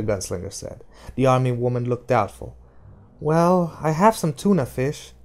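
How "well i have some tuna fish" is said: higher, brighter flight attendant; stewardess voice. Acted. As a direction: play the helpful stewardess.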